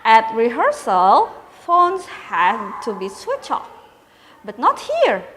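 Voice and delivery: lively storybook narration for pupils; reading to children. A narrator's reading. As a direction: read it aloud like a teacher to her class. Teacher reads story to pupils.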